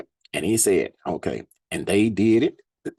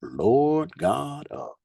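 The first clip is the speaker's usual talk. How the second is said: scripture reading; 3 semitones higher than usual. Acted. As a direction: lift the verses up like a preacher. Reads scripture aloud.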